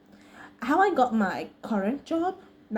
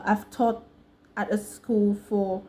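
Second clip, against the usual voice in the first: American accent; slower than usual. Shown as a demonstration. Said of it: "You wanna say stuff like".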